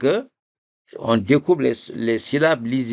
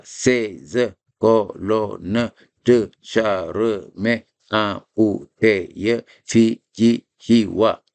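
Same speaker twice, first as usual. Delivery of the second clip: syllables separated; slower than usual. Shown as a demonstration. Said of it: "on sépare les syllabes".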